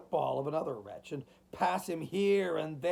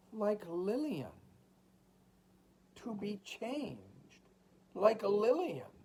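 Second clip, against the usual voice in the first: high, slow lament; anguished murmur; 5 semitones higher, slower than usual. A narrator's reading. Desperate mother speaking to herself in flight, anguished.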